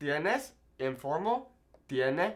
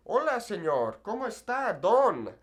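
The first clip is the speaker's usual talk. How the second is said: mock old-fashioned formal; 5 semitones higher than usual. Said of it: "very formal, like, very kinda old-fashioned".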